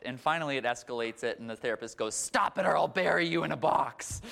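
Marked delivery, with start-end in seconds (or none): 2.2-4.2 high, loud threat. Retold or imitated. Therapist threatening his patient, loud. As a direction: threaten her deadpan and loud.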